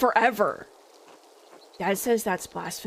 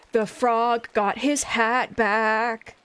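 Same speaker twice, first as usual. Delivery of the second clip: slow, delighted cooing over a cute picture; cutesy coo; much slower than usual. Real, not acted. Cooing at the frog in the book, slow and delighted. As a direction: savour each word like it's adorable.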